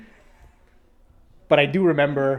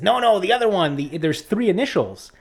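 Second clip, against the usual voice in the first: higher, louder, insistent; teacher correcting the student, higher and louder; impatient correction; 5 semitones higher, 4 dB louder than usual. Retold or imitated.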